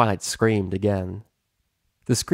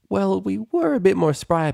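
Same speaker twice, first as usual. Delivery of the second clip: a touch higher, wry teasing; lightly voiced Twilight; 11 semitones higher, 4 dB louder than usual. Twilight teases Rainbow about age, lightly higher voice. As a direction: tease your old friend gently.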